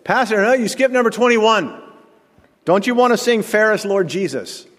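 high, insistent imitation of a churchgoer; hammed-up high-pitched objection; piping up. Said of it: "And again, John said".

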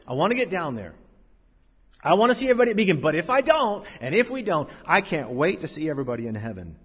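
lightly imitated joyful friend; retold joyful tone. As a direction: relay his happy longing, lifting in the middle. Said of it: "always had this joyful tone".

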